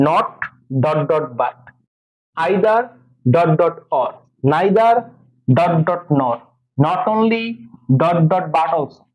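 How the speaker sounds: pairs recited with "dot dot" in each gap; pronouncing "dot dot". Shown as a demonstration. Teacher showing students how to pronounce the pairs, "dot dot" voiced in each gap. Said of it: "এটাকে কিভাবে উচ্চারণ করবা খেয়াল করো".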